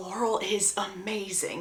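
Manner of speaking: put-on whisper. Retelling a character speaking quietly to another: imitating a whisper. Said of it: "Conrad whispers to Belly".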